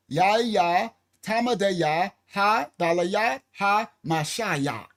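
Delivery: slow, syllable by syllable; said slowly. Shown as a demonstration. Teaching the congregation, slow careful recital. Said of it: "Let me say it slow".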